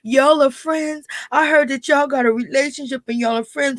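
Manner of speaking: put-on high, whiny little-kid voice; mock a small child tattling; imitating a child begging; childish kid voice. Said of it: "talking in the kid's voice and talking like a child".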